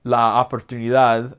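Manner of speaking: "la oportunidad" with "la" and "o" run together; mock American take; wrong pronunciation. Shown as a demonstration. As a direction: blend the vowels in "la oportunidad". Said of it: "So instead of saying".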